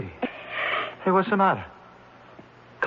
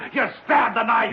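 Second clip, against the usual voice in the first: frenzied shout. Acted. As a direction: scream out the stabbing. Reliving the murder, shouting.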